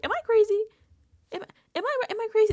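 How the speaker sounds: high, loud imitated questioning; hammed-up high-pitched disbelief; acted self-doubt. Acts out housemate demanding validation.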